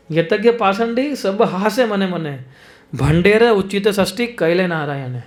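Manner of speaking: slow, measured verse chant; slow Bengali verse recitation; scripture recitation. Acted. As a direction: recite the verse slowly, reverently.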